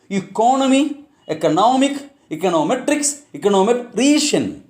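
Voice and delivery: "Economy, economic, econometrics, econometrician" with stress moving later along the series; shifting word stress. Shown as a demonstration. Teacher reading suffix examples, shifting word stress. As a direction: punch a later syllable as "Economy" grows to "econometrician". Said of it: "will really affect the stress".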